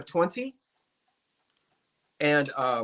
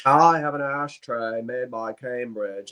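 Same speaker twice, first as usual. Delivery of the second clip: put-on slow Mid-Atlantic accent, like old TV; lightly done Mid-Atlantic accent; 5 semitones lower, slower than usual. Shown as a demonstration. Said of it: "I'm going to use my Mid-Atlantic accent".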